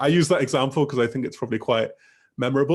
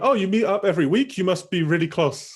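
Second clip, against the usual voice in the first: higher-pitched demo of a follow-up question; rising tag-question intonation; 6 semitones higher than usual. Shown as a demonstration. Teacher models a student's follow-up to a friend, rising intonation. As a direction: lift "You must be really close" higher, questioning. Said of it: "voice going up at the end".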